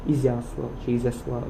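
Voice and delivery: Ізяслав offered with two alternative stresses; contrasting stresses. Shown as a demonstration. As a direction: move the accented syllable on the second Ізяслав. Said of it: "Одні кажуть по-іншому".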